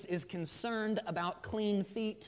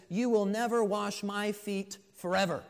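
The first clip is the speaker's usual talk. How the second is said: louder, higher, adamant refusal; even more emphatic; 4 semitones higher, 5 dB louder than usual. Acted. Peter absolutely refuses his master, emphatic. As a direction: declare it forcefully, punching the last word. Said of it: "he's even more emphatic".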